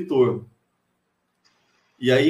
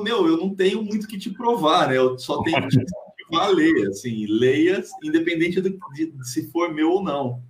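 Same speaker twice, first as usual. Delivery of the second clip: relaxed reply to students; 4 semitones higher than usual. Retold or imitated. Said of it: "eu falo".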